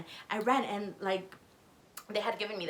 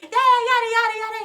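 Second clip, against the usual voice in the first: high-pitched indignant tirade, louder at the end; imitated angry rant; 11 semitones higher, 8 dB louder than usual. Girlfriend picks up his call, imitated high angry rant. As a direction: mimic her telling him off.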